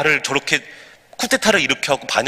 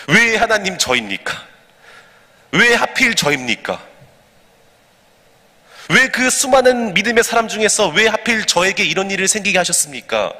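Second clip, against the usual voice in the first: resentful complaint; 4 semitones higher than usual. Acted. Suffering believer asking God why me, mildly resentful complaint. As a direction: question God as a wronged believer, lightly acted. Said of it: "막 오히려 원망하고 불평하고 따질 때가".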